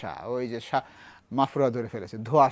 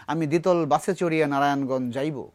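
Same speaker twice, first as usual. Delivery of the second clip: put-on a lightly stiff, old-fashioned literary phrasing; a touch of mock formal Bengali; mock bookish formality. Shown as a demonstration. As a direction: say it like a starchy formal book sentence, barely acted. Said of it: "বলি না".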